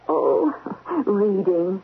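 flustered laugh mid-answer; a guilty little laugh caught out; nervous giggle. Acted. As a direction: giggle guiltily while covering up.

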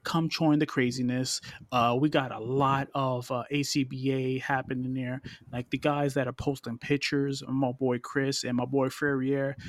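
smooth, measured creepy-seductive voice. Pretend. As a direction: lightly put on a creepy, seductive voice. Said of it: "I'm using this creepy voice".

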